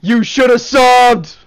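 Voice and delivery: voice changer. Acted. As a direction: drawl it through a voice changer. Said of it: "You should have subbed".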